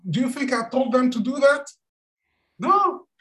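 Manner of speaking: a gentle rhetorical no; mock incredulous Buddha.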